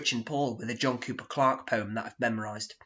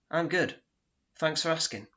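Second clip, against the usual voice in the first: The speaker's reply, lightly pitched up; a hint of a pleased therapist; mock cheery counsellor; 5 semitones higher than usual.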